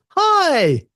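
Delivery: high, chirpy gadget voice; monitor saying hi. Retold or imitated. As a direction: voice the monitor as a cheery little device. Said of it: "When the monitor says".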